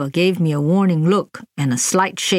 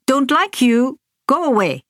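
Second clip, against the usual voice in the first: put-on child refusing; 6 semitones higher than usual. A narrator's reading. Child refusing her mother.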